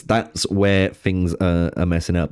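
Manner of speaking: talking through hiccups. Real, not acted. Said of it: "I've got the hiccups randomly".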